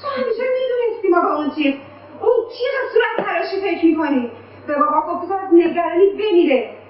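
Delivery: put-on child accusing mother while crying; tearful accusation. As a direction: accuse her through tears.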